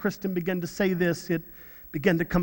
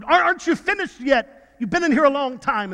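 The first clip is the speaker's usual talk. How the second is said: higher-pitched, mildly snappy retort; rude snap; 5 semitones higher than usual. Retold or imitated. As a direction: imitate a doctor rudely snapping. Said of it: "she really snapped at her. She was rude".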